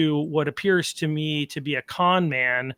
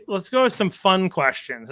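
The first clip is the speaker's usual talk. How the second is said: sarcastic; 4 semitones higher than usual. Real, not acted. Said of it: "And I say fun with sar- ... with sarcasm".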